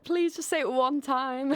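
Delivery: drawn-out mock pleading; mock begging. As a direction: playfully beg like an eager fan. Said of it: "Come over and be like".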